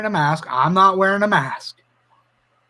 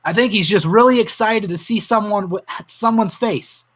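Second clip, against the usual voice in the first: a touch choked up, moved by the memory; holding back tears; 3 semitones higher than usual. Real, not acted. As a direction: fight the tears as you repeat her words. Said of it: "I'm gonna cry if I say this".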